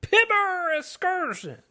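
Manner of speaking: high laugh through the words. Real, not acted. Host naming the trip, laughing. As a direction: giggle out "Pibber excursion".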